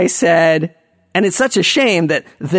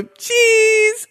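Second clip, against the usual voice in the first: a much higher, bright "Cheese" for the camera; photo cheese. Retold or imitated. Posing with Paul Schaefer for a selfie, chirping cheese. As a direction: sing out "Cheese" way up high.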